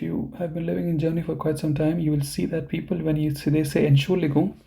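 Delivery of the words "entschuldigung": "Entschuldigung" with the ending swallowed, like Germans say it; clipped Entschuldigung. Shown as a demonstration. Teacher imitating how people in Germany say it, clipped. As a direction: drop the end of "Entschuldigung" as locals do. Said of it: "they say it like this".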